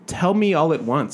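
high, slow annoyed plea; exasperated. Retold or imitated. Server venting about customers' extra requests, fed up. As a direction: let the frustration out, drawn out.

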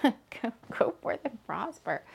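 put-on whispered Polish accent. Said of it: "I'm saying it all in the Polish accent".

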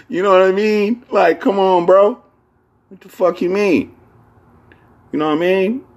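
very high-pitched incredulous protest; playful exasperation. Acted. Podcaster appealing to his bros after his rant, exasperated. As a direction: plead high, riled up after a laugh.

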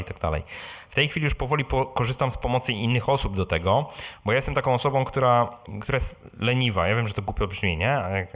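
usual speaking voice

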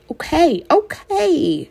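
high, hurried giving in; scared little girl. Acted. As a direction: back down quickly, frightened. Frightened little sister gives in.

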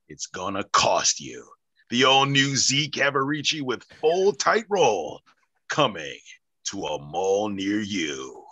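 movie trailer voice. Shown as a demonstration. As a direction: announce it like a blockbuster trailer. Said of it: "your movie trailer voice that you're so good at".

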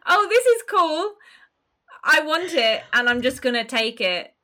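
high, loud entitled grabbing voice; Musk impression. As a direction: play an entitled tech billionaire. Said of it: "Musk vibes".

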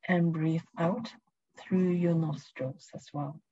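calm, unhurried guiding voice; guided meditation. Acted. Leads a presence meditation.

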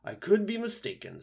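high, hesitant owl. A narrator's reading. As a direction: owl unsure. Owl character voice.

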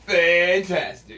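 slow stretched announcer Fantastic; drawn out like a soundboard drop; imitating the voice edit. Podcast host mimicking his soundboard clip. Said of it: "you hear me going".

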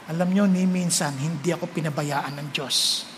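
a quiet, awed confession that God never abandoned him; hushed and grateful; softly moved testimony. Real, not acted. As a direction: drop the voice low and hushed, full of gratitude. Tender testimony of God's faithfulness.

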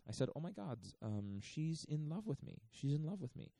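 channel the odd curator, half mocking; a light imitation of the curator's European accent; imitating Ulay's accent. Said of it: "he basically goes".

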